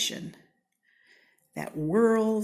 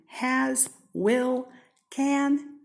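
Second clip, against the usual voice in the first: climbing higher with each word; rising list; 7 semitones higher, 3 dB louder, much slower than usual. Acted. Narrator to children, listing helping verbs, climbing up higher.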